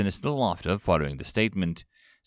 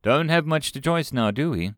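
sarcastic; 5 semitones higher than usual. Acted. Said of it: "said Wu sarcastically".

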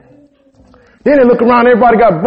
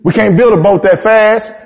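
much higher panicky whining; high, hammed-up complaining of the Israelites; 5 semitones higher than usual. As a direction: whine it like scared people blaming their leader. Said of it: "Just start complaining, acting stupid".

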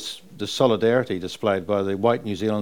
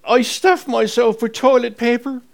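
high, loud, laughing Irish mum; 12 semitones higher, 6 dB louder, slower than usual. Retold or imitated. Son retelling Mum's joke at the table, laughing. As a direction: laugh out Mum's words, much higher. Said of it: "And she said".

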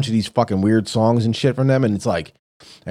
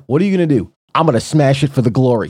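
higher, louder mock exchange; mock dialogue with partner; 3 semitones higher, 5 dB louder, faster than usual. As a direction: play both sides of a silly chat. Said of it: "It's like".

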